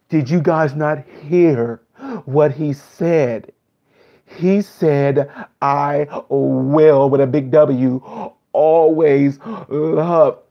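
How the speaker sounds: slow, drawn-out hammed-up awe; a hint of fake tearful wonder; mock awestruck reactor. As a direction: stretch it out like you're overcome. Parodying over-the-top reactor.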